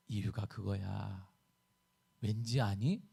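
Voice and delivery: low, soft, unhurried voice of God; God's answer. Acted. God finally answers the agitated Habakkuk, low quiet reply. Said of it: "이렇게 말씀하시고".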